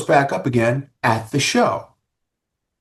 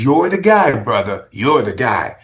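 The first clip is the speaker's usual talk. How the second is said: Steve Riley impression; 2 semitones higher, 4 dB louder than usual. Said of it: "my best Steve Riley impersonation".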